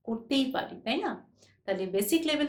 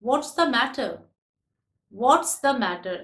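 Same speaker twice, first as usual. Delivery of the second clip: slow model read; 4 dB louder, much slower than usual. Shown as a demonstration. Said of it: "Actually, এটা what is the matter?".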